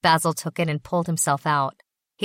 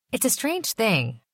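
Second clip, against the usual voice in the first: muttered into his hand; 6 semitones higher, slower than usual. A narrator's reading. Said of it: "said into his hand".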